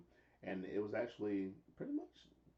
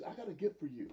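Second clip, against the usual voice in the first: mock wrestler taunt; 11 semitones higher than usual.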